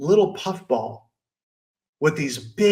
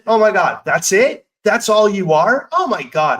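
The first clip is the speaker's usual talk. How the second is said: mock scornful; 4 semitones higher, 4 dB louder than usual. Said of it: "I didn't say".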